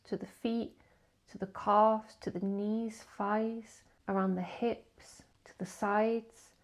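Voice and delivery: slow list of body parts, a pause after each; drawn-out, spaced meditation guidance; guided body scan. Acted. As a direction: lead the scan gradually, phrase by phrase.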